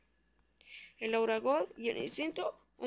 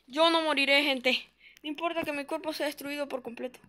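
dramatic hero narration. Pretend. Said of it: "Yo narrando esa cosa".

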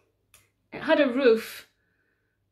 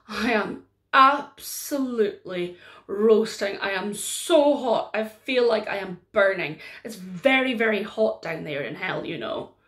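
overheated devil chair; 2 semitones lower than usual. Acted. Chair complains of heat.

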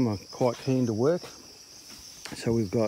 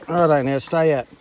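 stern; 4 semitones higher, 12 dB louder than usual. Real, not acted. Telling child to stay out.

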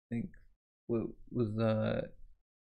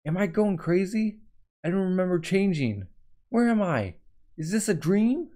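a higher, bewildered voice; confused character; 4 semitones higher than usual. Acted. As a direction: ask it as if you can't believe it.

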